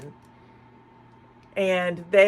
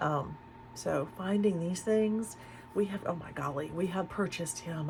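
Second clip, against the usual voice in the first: much softer, hushed, low talking. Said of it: "I'm, I'm talking low".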